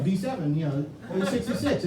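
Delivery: fast bingo call, laughing; bingo caller. Retold or imitated. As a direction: rattle off the numbers quickly. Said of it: "I'm like".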